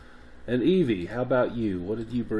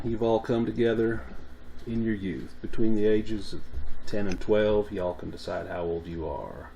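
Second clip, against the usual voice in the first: Appalachian accent. Shown as a demonstration. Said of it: "I'm gonna do my best Appalachian accent".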